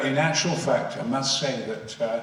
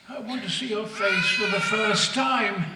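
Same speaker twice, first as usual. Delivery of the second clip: pleading shout; 7 semitones higher than usual. Retold or imitated. Vader's plea, repeated louder.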